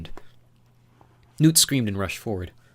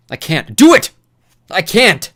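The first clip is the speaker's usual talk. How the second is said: desperate cries; 10 semitones higher, 16 dB louder, slower than usual. Acted.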